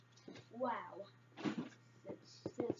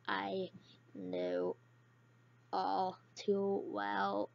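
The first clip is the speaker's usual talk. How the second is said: robot voice; much slower than usual. Pretend. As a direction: drone it out like a speech synthesizer. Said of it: "That's my Robin Rob-, robot voice".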